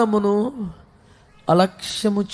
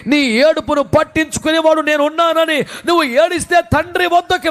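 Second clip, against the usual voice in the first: fervent preaching; 3 semitones higher than usual. Acted. Preacher urging the congregation to praise God, fervent full voice.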